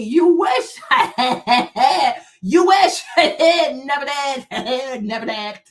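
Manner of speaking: real laughter breaking up the words; laughing scorn. Real, not acted. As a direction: jeer through loud laughs. Laughs off a commenter's claim.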